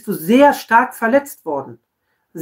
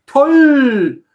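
mock cheerful. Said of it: "freudestrahlend den Leuten entgegengehen".

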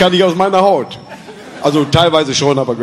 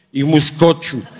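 mock tender; 4 semitones lower than usual. Date voiced tenderly announcing she must throw up, mock sweet. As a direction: say it sweetly as if it were romantic. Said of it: "sagte so ganz zärtlich".

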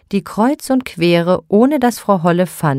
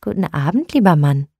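kindly greeting a stranger; friendly; faster than usual. Acted. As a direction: greet him gently and warmly. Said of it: "sagte freundlich".

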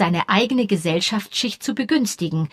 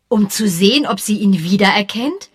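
sharp question; 2 semitones higher, 6 dB louder than usual. Acted. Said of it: "fragte Misses Bantry scharf".

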